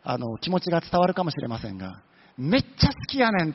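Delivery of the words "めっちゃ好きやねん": fond Kansai-dialect confession, pitched a little up. Shown as a demonstration. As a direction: say it the Osaka way, like a shy crush. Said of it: "この辺は関西弁で言った方が".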